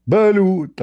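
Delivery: high, loud street vendor cry; hawker's drawn-out call; mock vendor shout. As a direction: call it out like selling eggs on the beach. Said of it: "each time he screamed, he screamed loud".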